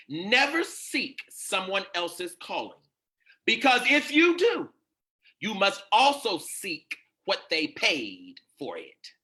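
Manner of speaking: slow, emphatic preacher's proclamation; preaching a maxim. Acted. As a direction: hammer out the maxim phrase by phrase, with weighty pauses.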